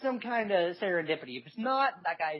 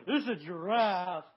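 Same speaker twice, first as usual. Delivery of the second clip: half-hearted. Retold or imitated. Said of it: "it's really half-hearted".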